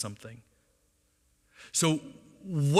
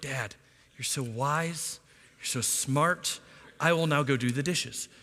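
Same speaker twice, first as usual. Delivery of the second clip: mock kids' praise. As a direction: play the children's fake flattery dryly. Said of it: "they always say, they're like".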